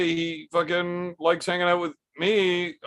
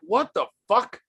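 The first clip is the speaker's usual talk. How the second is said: baffled; 7 semitones higher than usual. Real, not acted. Baffled by a garbled chat message.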